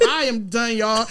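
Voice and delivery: laughing through the words. Real, not acted. Co-host giving up on the sign-off, laughing.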